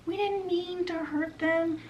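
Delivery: high, far-off fairy voice fading into a whisper; stammering. Retold or imitated. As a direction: stammer guiltily, trailing off to a whisper. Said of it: "they start stammering".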